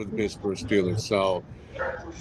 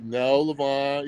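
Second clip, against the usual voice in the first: slow, easy, unhurried reassurance; imitating the chairman's calm, cool reply; slower than usual. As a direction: settle him down slowly. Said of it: "real calm and cool".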